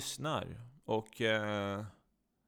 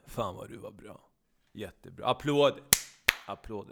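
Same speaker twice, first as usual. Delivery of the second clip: sarcastic praise; 3 semitones lower than usual. Acted. Partner mock-applauding the song, dryly sarcastic. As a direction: offer applause with no enthusiasm at all. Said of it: "Jag förstår din sarkasm".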